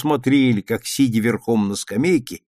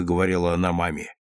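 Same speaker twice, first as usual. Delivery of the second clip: ordinary delivery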